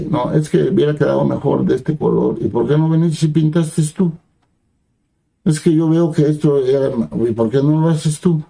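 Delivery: nitpicking like a site boss, lightly acted; know-it-all complaining. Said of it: "son como directores de obra". (crítica altiva y quisquillosa, imitada suavemente)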